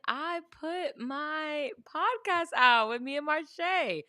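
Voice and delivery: talking through a yawn. Real, not acted. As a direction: say it mid-yawn. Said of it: "Sorry, I just yawned".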